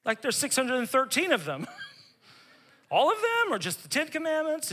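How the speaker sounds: cheeky questioning, high on all of them; a hint of a know-it-all; mock eager questioner; smug young ruler. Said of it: "the rich young ruler goes".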